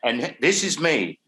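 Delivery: lightly hammed-up rock star boast; party animal persona. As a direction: hype up the legendary party animal. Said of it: "And then Ralph was born".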